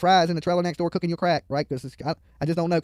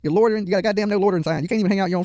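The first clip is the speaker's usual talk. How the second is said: louder taunting call across the street; loud heckling; 3 semitones higher, 4 dB louder than usual. Real, not acted. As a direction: heckle her loudly, mocking.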